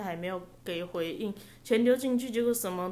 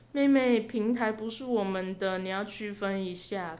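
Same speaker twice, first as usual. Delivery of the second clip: mock aggrieved. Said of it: "开始装委屈".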